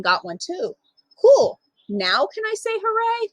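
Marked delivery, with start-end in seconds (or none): 1.2-1.6 high and louder, delighted; a kid's thrilled reaction; child impressed by the medal; excited cool. Acted. 1.9-3.3 put-on higher, hopeful child asking; child begging to cheer at last; eager question.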